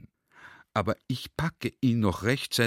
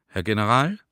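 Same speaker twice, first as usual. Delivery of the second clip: meaningfully drawn out; 4 dB louder, faster than usual. Retold or imitated. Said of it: "mit einer Stimme, die jedes Wort bedeutungsvoll gedehnt hat".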